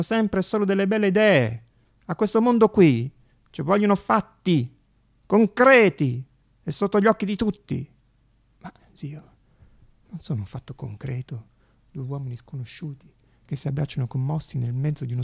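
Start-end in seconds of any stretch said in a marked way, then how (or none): 0.0-7.9 uncle's lecture. Retold or imitated. Nephew mimicking his uncle's lecture, louder. 8.6-13.1 whispered protest. Acted. Nephew whispering back to his uncle, hushed.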